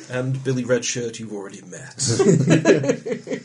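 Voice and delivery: ordinary talk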